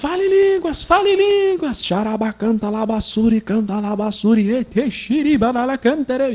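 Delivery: booming yell at full voice, acted out. Retelling how he urged people at the service, imitating his own past shouting. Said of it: "Eu ficava gritando em alta voz, bem alto".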